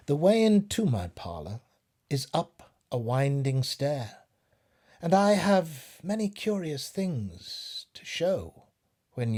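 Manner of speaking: lilting storybook poem reading. A narrator's reading. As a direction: read it like a bedtime rhyme.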